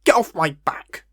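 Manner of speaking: whispered, mock-defensive West Country aside. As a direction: hiss it at the audience in a whisper.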